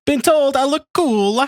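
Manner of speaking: slow, high, cartoon Italian accent; a hammy Italian creep. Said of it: "Can you do an Italian accent?".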